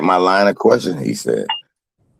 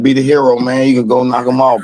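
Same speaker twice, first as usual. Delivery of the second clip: mock hype; 5 semitones higher than usual. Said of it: "I was like".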